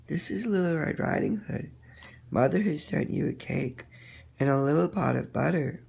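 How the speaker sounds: put-on polite little girl at door. Girl voiced by narrator.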